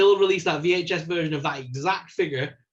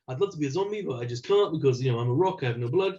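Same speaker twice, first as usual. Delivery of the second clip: Korg impression; 2 semitones lower, faster than usual. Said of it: "he should narrate a whole episode".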